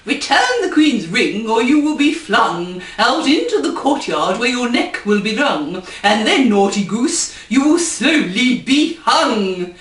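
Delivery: a hammed-up royal threat; stern king. King threatens the naughty goose with a stern voice.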